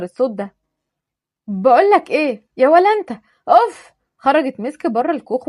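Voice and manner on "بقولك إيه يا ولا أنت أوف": higher, louder huffy call; rude call. Acted. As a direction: summon him, annoyed. Misk calling out rudely.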